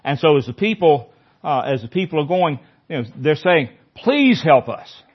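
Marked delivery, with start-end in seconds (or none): 4.0-5.0 crowd's plea. Acted. Crowd begging as Jesus enters.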